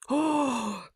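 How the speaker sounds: a short, happy intake of breath; delighted gasp. Acted. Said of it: "Salios gasps".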